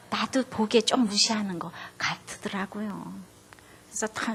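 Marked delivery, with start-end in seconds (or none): 0.1-3.1 tender agreement. Retold or imitated. Wife gently siding with her offended husband, tender. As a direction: soothe him by taking his side.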